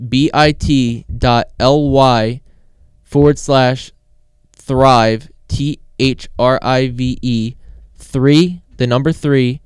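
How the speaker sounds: slow, emphatic letter-by-letter dictation; spelling it out. Real, not acted. Host spells the promo link for listeners, slow and emphatic. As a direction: spell the link out loud and slowly.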